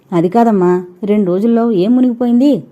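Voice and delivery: a touch of exasperation; irritated. Acted. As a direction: ask with mild impatience. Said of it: "విసుగ్గా అడిగింది".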